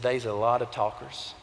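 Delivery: put-on low, soft and slow quoting the old man; a hint of the old man, hushed; quiet old man's words. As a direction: leave them with the old man's hushed line. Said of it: "the words of that little old man".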